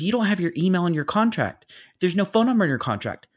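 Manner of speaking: high, hurried mock complaint; imitated screaming. Planner complaining about the contract, mock screaming. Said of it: "she stopped screaming".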